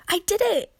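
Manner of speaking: loud, high triumphant shout; triumphant cry. A narrator's reading. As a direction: burst out in triumph. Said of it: "cried Kate".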